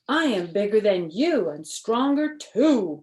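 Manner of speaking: lightly voiced bragging ghost; boasting ghost. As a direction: brag about being bigger. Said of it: "boasted the ghost".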